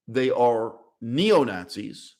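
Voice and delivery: "neo-Nazis" said slowly, weight on "neo"; stress on neo. Shown as a demonstration. Lecturer stressing the new kind of Nazi to viewers, hitting "neo". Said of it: "the emphasis has to be on neo".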